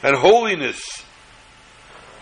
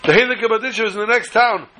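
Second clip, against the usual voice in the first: pleading; 6 semitones higher than usual. Retold or imitated. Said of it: "But he says".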